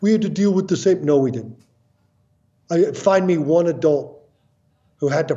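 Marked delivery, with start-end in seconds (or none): 0.0-1.0 a hint of sneering older generation; mocking complaining adults. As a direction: mimic a dismissive adult with a mild sneer. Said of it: "adults love to say that".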